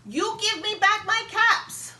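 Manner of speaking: high, loud demand; angry demand. A narrator's reading. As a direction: order them to give the caps back. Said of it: "he said, shaking a finger".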